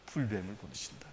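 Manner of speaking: ordinary talk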